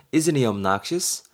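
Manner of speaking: very slow, clear question; slow example read. Shown as a demonstration. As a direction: read it slowly for students. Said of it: "B가 뭐라 그래요". (천천히 예문 읽기)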